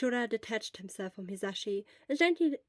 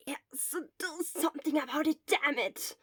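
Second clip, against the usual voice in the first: harsh tone; 5 semitones higher than usual. Acted. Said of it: "Shota regretted his harsh tone".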